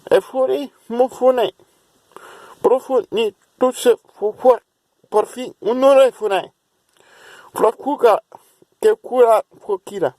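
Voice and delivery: put-on a light English accent over invented syllables; a faint hint of an English accent. Showing viewers his English accent, lightly put on. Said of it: "here is my English accent".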